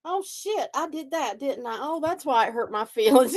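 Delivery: mock realization. Mock realization in self-talk.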